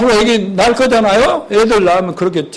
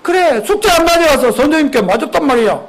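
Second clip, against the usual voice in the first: higher-pitched, lightly acted sulk; sulky child; 6 semitones higher than usual. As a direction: grumble back at mom like a sulky kid. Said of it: "민준이가 심통스럽게 뭐래?".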